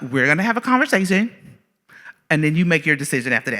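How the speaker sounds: softly controlled, politely insistent; imitated passive-aggressive politeness. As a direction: lay down terms sweetly, lilting up then dropping. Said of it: "very passive aggressive".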